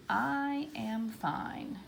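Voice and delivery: very slow, drawn-out words; writing-out pace. Shown as a demonstration. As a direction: say it word by word as you write. Teacher sounds out letter while writing.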